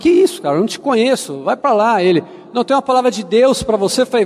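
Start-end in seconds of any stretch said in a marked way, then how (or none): 0.0-2.0 put-on annoyed, dismissive tone with swooping pitch. Retelling brushing off a stranger who wanted to talk, acting out irritation. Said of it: "eu andava tão irritado que eu falei assim".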